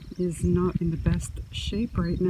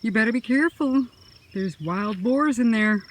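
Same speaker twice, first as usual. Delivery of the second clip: warning mother; 3 semitones higher, 4 dB louder than usual. Retold or imitated. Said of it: "and my mother said".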